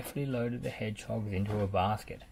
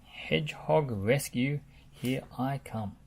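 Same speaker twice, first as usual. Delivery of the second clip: eager rattle; 4 semitones higher, slower than usual. Acted. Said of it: "rattled Muck".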